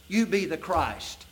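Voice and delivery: a mocking challenge, the "If" flung out high and loud; mocking doubt. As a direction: sneer it like a doubter at the cross. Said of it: "what I'm really doing is saying".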